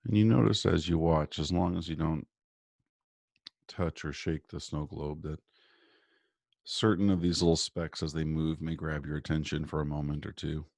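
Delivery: calm, measured guiding voice with long pauses; guided meditation. Real, not acted. Guest doctor leading listeners through morning breathing and visualization, guided meditation.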